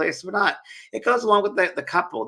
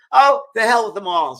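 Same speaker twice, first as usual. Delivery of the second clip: voiced mother; 8 semitones higher, 8 dB louder than usual. Dead mother voiced, dismissing husbands.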